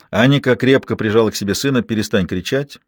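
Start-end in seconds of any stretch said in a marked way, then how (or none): none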